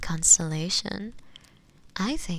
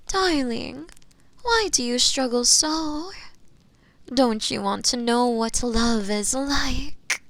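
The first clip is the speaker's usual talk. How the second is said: higher, swooning teasing delivery; gleeful temptation; 4 semitones higher, 4 dB louder than usual. Acted. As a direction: tempt the captive, voice lifting with delight. Witch revels in forbidden romance.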